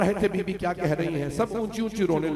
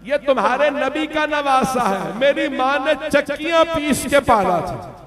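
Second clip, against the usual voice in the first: crying plea; 6 semitones higher, 5 dB louder than usual. Acted. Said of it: "मैंने रो रो के कहा".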